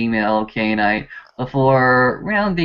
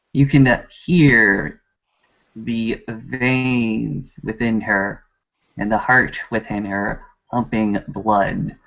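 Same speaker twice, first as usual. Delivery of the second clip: game master's seductive narration. Acted. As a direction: linger over each detail temptingly. Game master tempts with description.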